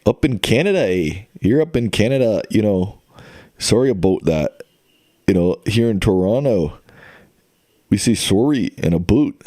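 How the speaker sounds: hammed-up Canadian accent with eh and a boot. Shown as a demonstration. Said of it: "Let me do my best Canadian accent".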